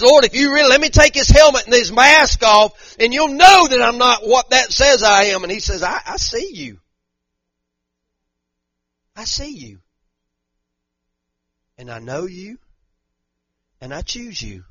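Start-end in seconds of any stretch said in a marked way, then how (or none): 0.0-5.4 loud pleading prayer. Acted. Man pleading loudly to God. 5.8-14.6 quiet and tender, fading lower; soft voice of God. Acted. God answers softly.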